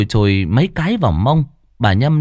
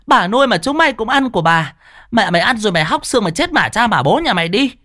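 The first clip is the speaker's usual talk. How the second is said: screaming curse; 11 semitones higher than usual. Acted. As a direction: hurl abuse at the thief's family, nonstop. Neighbour's cursing tirade. (chửi rủa the thé, giận dữ)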